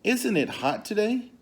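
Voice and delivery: butter up the elephant in a high, sly voice; sly Anansi voice. Acted. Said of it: "So he said to Elephant".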